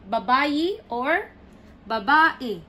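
"Babae" as ba-BA-e; weight on the middle of "babae"; stress on second syllable. Shown as a demonstration. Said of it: "The stress is in the second syllable".

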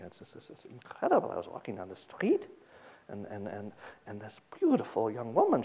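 put-on mildly hushed, eager old Polish man; a lightly voiced old man confessing with relish. Retelling Polanski's joke, a lightly voiced old man confessing to the priest. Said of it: "He does the voices".

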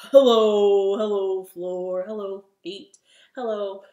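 deep low-voiced hellos. Shown as a demonstration. Host saying hello low to the floor and feet. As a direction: drop your voice down to the floor. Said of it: "as low as we can".

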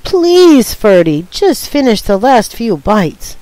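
a sister pleading with her brother to finish lunch. Acted. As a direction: beg him to finish, worn out. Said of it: "couldn't think of one more thing".

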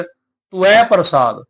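"ਤੁਐ" split slowly into "tu-ai"; wrong two-vowel reading. Shown as a demonstration. Teacher imitating the common wrong reading, slowly. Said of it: "ਉਹ ਠੀਕ ਨਹੀਂ ਹੈ".

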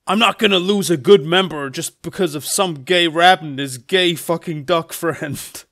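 lightly acted loud gunman's threat; forceful declaration, slowing at the end; Shadow. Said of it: "Shadow pulls out a fucking gun and says".

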